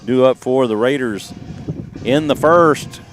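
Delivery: upbeat announcer reading the lineup; lineup announcement. Acted.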